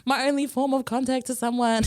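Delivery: mildly hammed-up dismay at a lost privilege; retold sulky protest. Teen loses her computer time, mock-upset protest. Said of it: "I used to be so shitty".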